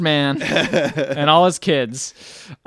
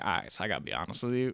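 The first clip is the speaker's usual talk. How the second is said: captain breaking it off; 6 semitones lower, 14 dB quieter, faster than usual. Retold or imitated. Voicing the captain dumping the Baroness.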